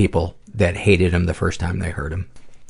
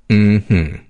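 campy drag queen; 4 dB louder than usual. Shown as a demonstration. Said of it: "waving my finger ... moving my neck".

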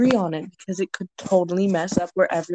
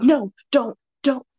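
loud, raised mock pleading; mock protest; 5 semitones higher, 8 dB louder, slower than usual. Begging a friend to stop, loud mock protest.

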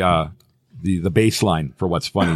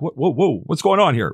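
higher, half-acted surprise at an accent; mock startled; 7 semitones higher than usual. Host recalls first hearing guest's accent, mock surprise. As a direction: reenact being caught off guard, lightly. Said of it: "I'm like".

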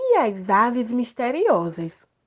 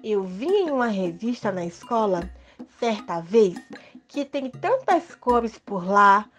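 story narration; 3 semitones higher than usual. Acted. Child character narrates story.

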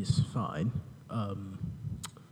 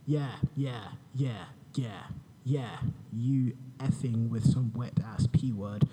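boring voice parody. Pretend. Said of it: "in my boring voice".

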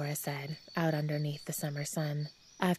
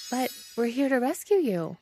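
Glimmer voice; 9 semitones higher, 5 dB louder than usual. A narrator's reading. Glimmer protests, hurt.

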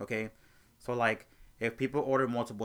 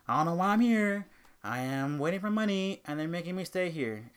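mock complaining customer, louder; whiny customer; 5 semitones higher, 4 dB louder than usual. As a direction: imitate the rude customer griping. Angry customer quote retold.

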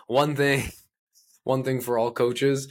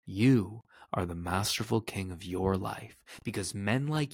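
measured, slightly softer affirmation read; motivational affirmation; 4 dB quieter than usual. Acted. Coach addressing his listener as king, measured affirmation. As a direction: recite an empowering affirmation, unhurried.

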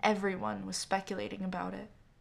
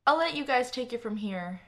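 raised voice calling to a friend; 3 semitones higher, 5 dB louder than usual. Acted. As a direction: call it across the street. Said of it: "I called out to Damien".

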